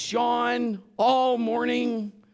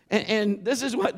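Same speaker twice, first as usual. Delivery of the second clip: ordinary talk, nothing marked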